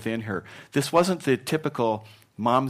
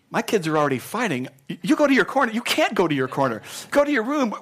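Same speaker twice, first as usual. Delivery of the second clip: mock-scolding mother, much higher and louder; 9 semitones higher, 5 dB louder than usual. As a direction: bark orders at fighting kids. Mother voiced scolding kids.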